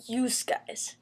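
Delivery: lightly imitated Northern "yous guys"; slow mock-Northern "Yous guys"; northern accent. Shown as a demonstration. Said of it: "say it in their northern accents".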